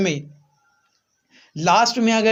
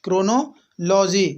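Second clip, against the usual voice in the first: क्रोनोलॉजी spelled out slowly, each syllable clear; slow teacher repeat; slower than usual. Shown as a demonstration. Teacher repeating the word for the class, slow and clear. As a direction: draw out क्रोनोलॉजी slowly for students to copy. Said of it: "है ना".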